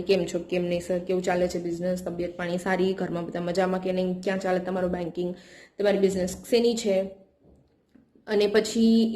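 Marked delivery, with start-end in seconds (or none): 0.0-7.0 lower, softer friendly small talk; smiling friendly chat. Shown as a demonstration. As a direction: chat warmly with the customer with a smile. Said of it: "પહેલાથી તમે હસીને વાત કરી". (હસીને મીઠી વાતો)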